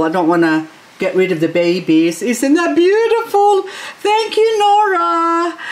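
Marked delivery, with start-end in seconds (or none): 2.2-5.6 high-pitched, singsong gushing; gushing thanks. Real, not acted. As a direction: gush gratefully, voice lifted right up. Gushing thanks over the plant.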